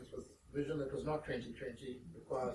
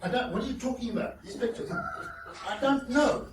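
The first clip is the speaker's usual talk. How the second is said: high, loud, laughing confusion; laughing bewilderment; 7 semitones higher, 6 dB louder than usual. Retold or imitated. Clueless author answering the techie, laughing. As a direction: laugh through the helpless questions. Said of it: "Are these Y T B".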